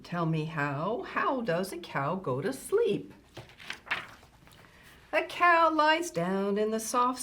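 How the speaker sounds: measured, lilting picture-book reading; reading to children. Acted. Grandma Kitty reading a farm bedtime book to children, storytime voice. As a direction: read a rhyming bedtime book to little listeners.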